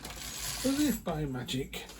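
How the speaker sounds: slow, hammed-up magic announcement; mock magical. Reader switching on the lights, slow mock magic. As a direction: draw it out like a conjurer's flourish.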